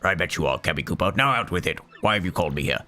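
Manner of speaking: low, impatient king; grumpy Bowser. Acted. Bowser demands Kammy's news, low and grumpy. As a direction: growl it out low.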